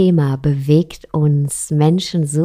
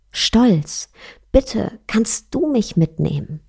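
pleading Love; 5 semitones higher than usual. Acted. Liebe bittet um Mitnahme.

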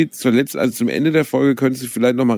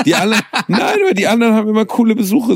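playful whining; 11 semitones higher, 3 dB louder, faster than usual. Real, not acted. Mock sulking about missing visits.

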